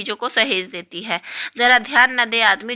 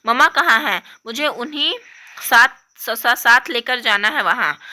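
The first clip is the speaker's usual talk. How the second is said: put-on a child near tears, louder and pleading; lightly voiced upset young girl; upset little girl; 4 dB louder than usual. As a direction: complain like a hurt kid.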